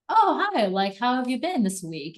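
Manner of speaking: gushing mock hello; high bright greeting. A friend greets you with a high, loud, cheery hi. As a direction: squeal the hi way up, then chat. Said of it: "someone asks you".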